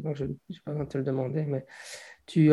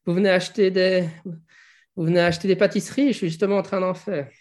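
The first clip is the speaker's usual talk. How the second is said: higher, quick, lightly voiced old baker woman; 4 semitones higher, 4 dB louder than usual. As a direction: play a chatty old lady, fast. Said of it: "elle fait".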